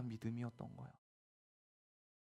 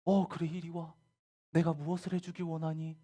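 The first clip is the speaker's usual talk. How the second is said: welcoming acted voice, pitched up; kind, friendly; 6 semitones higher, 3 dB louder than usual. Jesus answering Bartimaeus, kind and friendly. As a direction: invite them over kindly. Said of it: "이렇게 친절하고 다정하게 얘기하셨는데".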